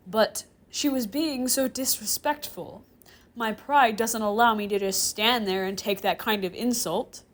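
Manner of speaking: loud, protesting self-defence; indignant. Acted. Professor defending himself to the chair demon, indignant. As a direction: protest with wounded pride.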